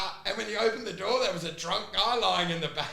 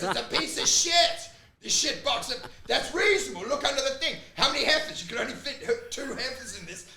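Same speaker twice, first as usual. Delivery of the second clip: imitating the Canadian guy; 4 semitones higher than usual. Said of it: "he's a Canadian guy that goes".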